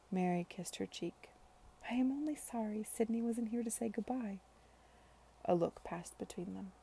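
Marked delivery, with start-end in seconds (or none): 1.9-4.4 hushed and regretful; sorrowful whisper. Acted. Mary regretting Sidney's absence to Charlotte, whispered. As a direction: breathe it out sadly. Mary's sad farewell.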